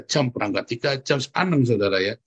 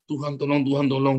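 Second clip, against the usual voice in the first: hurried prayer. Retold or imitated. Preacher mimics believers praying in haste, hurried prayer. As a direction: imitate a rushed, repetitive plea. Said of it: "tapi terburu-buru Anda berdoa".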